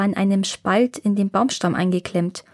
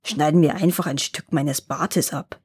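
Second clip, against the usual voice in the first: lower, muttered complaint; dwarf grumbles about his cut beard, in a lower voice; grumbling; 5 semitones lower than usual. Acted. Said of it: "brummte er".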